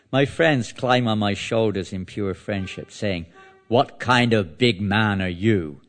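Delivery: measured, declamatory verse reading; scripture reading. Acted. Teacher reading verses to listeners, scripture reading. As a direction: read the verse out to a congregation.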